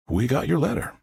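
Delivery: lightly voiced Southern visitor; Southern accent. Visitor hands over an envelope, light Southern accent.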